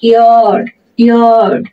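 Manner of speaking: ইয়ার্ড with the middle vowel drawn long. Shown as a demonstration. Teacher demonstrates long a to learners, ইয়ার্ড with lengthened vowel. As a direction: stretch the vowel in ইয়ার্ড, each repeat separate. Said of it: "এই long আটা হয়ে যাবে".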